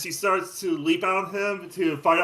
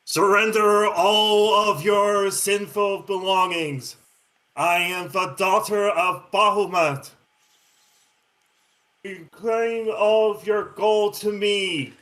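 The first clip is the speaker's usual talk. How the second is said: booming echoing voice; 3 semitones higher, 3 dB louder than usual. Acted. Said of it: "a booming voice echoing ... demanding".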